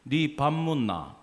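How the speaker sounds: slow Daegu-accented question, falling away; Daegu dialect. Shown as a demonstration. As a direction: demonstrate Daegu intonation, drawn out. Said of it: "제가 대구말 해볼게요".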